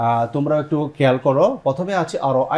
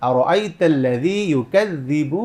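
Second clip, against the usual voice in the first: slow recitation demo; much slower than usual. Shown as a demonstration. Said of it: "এটা হচ্ছে মদ্দে তবাই".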